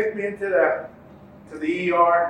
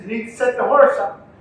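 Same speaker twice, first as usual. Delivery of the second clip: raised, higher urging; urgent call; 6 semitones higher, 6 dB louder than usual. Retold or imitated. Nephew urging his dazed uncle, raised urgent call. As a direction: push him to act now. Nephew urges him mid-race.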